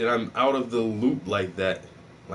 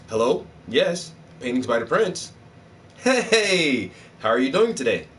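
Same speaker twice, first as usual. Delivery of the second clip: professional phone voice. Retold or imitated. Answering for Paintings by the Prince, a mild professional voice. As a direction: answer the business line smooth and polite, lightly voiced. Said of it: "a generic professional voice".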